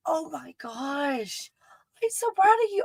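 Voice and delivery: hushed high-pitched gush of pride; overexcited. Real, not acted. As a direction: squeal it softly, overcome with pride. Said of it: "to be all excited about this".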